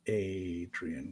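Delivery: drawn-out, savoured name; savouring the name. Acted. She repeats the newcomer's name to herself, savouring it. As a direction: roll the name slowly around the mouth. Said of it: "kind of rolls it around in her mouth a little bit".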